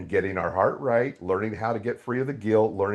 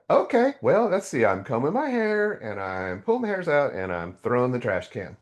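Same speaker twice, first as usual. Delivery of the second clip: higher, exasperated retold reply; frustrated; 3 semitones higher than usual. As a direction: spell it out, growing irritated. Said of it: "Now I'm getting frustrated".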